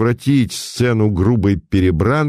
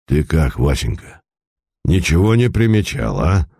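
a lightly voiced old merchant, a touch lower; 5 semitones lower than usual. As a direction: tell it like a worried old moneybags. Старик спрашивает сына. (слегка озвученный старый купец)

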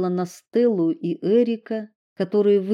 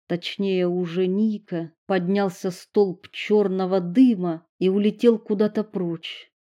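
ordinary delivery

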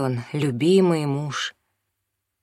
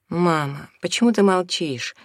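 usual speaking voice

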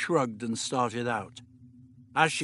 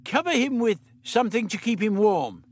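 put-on higher, brisk old doctor; 8 semitones higher than usual. The Doctor instructing Meliam, brisk fussy voice.

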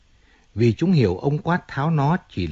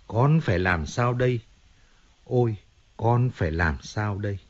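mocking whine. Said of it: "rên rỉ như một mụ đàn bà".

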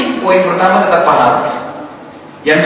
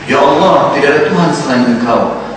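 humble prayer; 2 semitones lower than usual. Shown as a demonstration. Preacher showing how to praise God in night prayer, reverent. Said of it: "ya, bilang".

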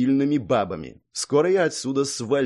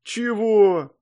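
stunned what; 9 semitones higher, 5 dB louder than usual. Acted. Hero stunned by her words.

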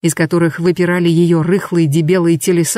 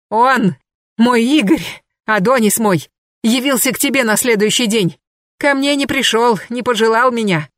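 ordinary delivery, nothing marked

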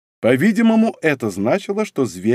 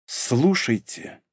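slow, softer, choked; slow, strained voice; 5 dB quieter, much slower than usual. A narrator's reading. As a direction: squeeze it out slowly. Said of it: "медленно произнесла она сдавленным голосом". (медленно, сдавленным голосом)

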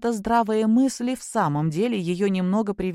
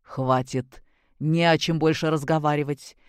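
stern father; 2 semitones lower than usual. Acted. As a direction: lay down the law as the stern grandfather. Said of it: "сказал грозно".

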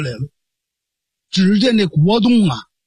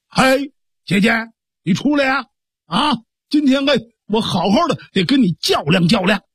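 higher, brash call to his sister; challenging shout; 3 semitones higher than usual. Acted. Brother shouts for his sister to come out, brash challenge. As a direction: yell her out of her room, cocky. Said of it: "他喊开了".

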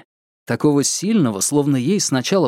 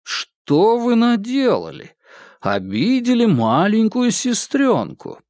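mocking; 9 semitones higher, slower than usual. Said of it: "с насмешкой проговорил он".

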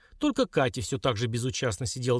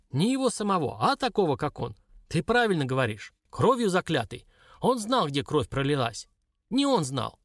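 put-on old shaman; 6 semitones higher than usual. Shaman explains.

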